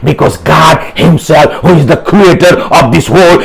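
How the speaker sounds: insistent, driving sermon delivery; rallying the congregation with emphatic declarations; preaching. Real, not acted. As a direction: preach it with conviction, phrase upon phrase. Preaches at full force.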